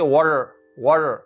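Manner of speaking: "वाटर" with the final र curled and held; American rolled R. Shown as a demonstration. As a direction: sound the r clearly at the end of "वाटर". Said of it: "Americans आप पढ़ रहे हैं तो आर को रोल करते हैं". (American ढंग से वाटर का र घुमाकर)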